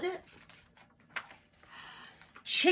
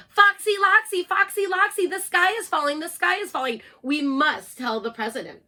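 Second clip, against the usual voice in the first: high, loud frantic cry fading at the end; panicky cry; 7 semitones higher, 5 dB louder than usual. Acted. Birds warn Foxy Loxy, high panicky cry fading. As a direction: cry the alarm to the fox.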